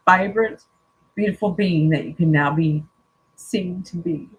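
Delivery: calm, measured reading of a card message; reading aloud. Acted. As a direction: read it out gently and evenly, like a spiritual message. Reads oracle card text aloud.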